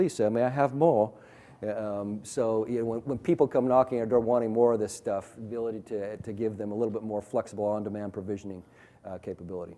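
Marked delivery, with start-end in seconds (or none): 0.0-1.1 put-on British accent, polite tone. Acting out a request for more in a put-on British accent. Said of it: "in the speaker's finest British accent".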